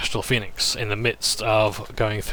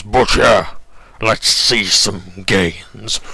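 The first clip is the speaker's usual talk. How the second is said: loud, drawn-out gym-bro greeting; gym-bro hail; 4 dB louder, much slower than usual. Acted. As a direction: bellow the name, then stretch the words out slowly. Rakanar hails butcher like gym bro.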